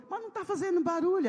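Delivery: high, fast puzzled question; amazed the engine makes no noise; surprised. Retold or imitated. Husband surprised at silent engine. (surpresa aguda e rápida)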